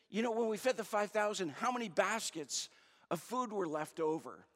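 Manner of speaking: touch of exasperation, quizzing them; mildly frustrated. Acted. Jesus quizzing his disciples on the feeding, mildly frustrated. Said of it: "he gets frustrated".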